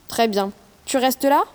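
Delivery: put-on girl dropping into her dad's voice; deep father voice. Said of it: "prend sa voix la plus grave pour imiter celle de son père".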